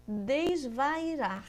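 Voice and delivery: Desvairar stretched very slowly, syllable by syllable; drawn out slowly. Shown as a demonstration. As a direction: spell it out with the voice. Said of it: "Mudei o I do lugar". (desvairar bem devagar, sílaba por sílaba)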